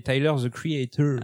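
French speaker's clumsy English accent. Real, not acted. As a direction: say the name in a bad English accent. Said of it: "j'ai un accent anglais atroce".

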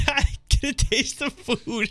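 laughing through the words; giggling while talking. Real, not acted. Laughing mid-sentence.

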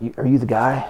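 hushed, conspiratorial whisper; whispered question. Retold or imitated. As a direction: lean in and whisper it like a secret. People approaching him at church.

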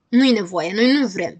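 shouting. Acted. The others decline hearing their poems, shouting. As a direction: refuse loudly, without raising pitch. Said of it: "strigau ceilalți".

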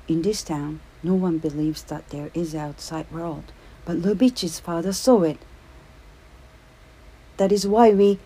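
a hint of a boy blurting a secret; Popel's voice. A narrator's reading. Popel telling John about the outside world, blurting.

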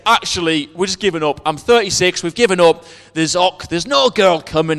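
lightly imitated Scottish accent. Preacher retells a man's confession at a wedding, light Scottish accent. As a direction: retell it with a hint of Scots. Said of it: "he said in his Scottish accent".

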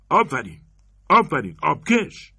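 high, loud sarcastic bravo; mocking praise. Anders mocking the robber's threat to the woman, high and sarcastic. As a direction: savour the robber's clumsy word.

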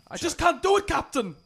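high mock Scottish engineer voice; hammed-up Scottish Star Trek engineer; Scotty impression. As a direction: play Scotty badly, pitched well up with a Scottish lilt. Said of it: "I can just do Scotty impressions".

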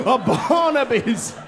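high, slow announcement with a gasp; mock dramatic warning. Imagined kids announcing Barnaby, high hammed-up warning. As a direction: herald his arrival like a legend.

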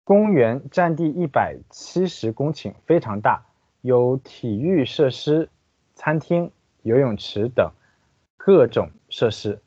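careful Chinese read-aloud; guide narration. Acted. Translator reading the park guide to listeners, formal narration. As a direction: read out each phrase evenly and distinctly.

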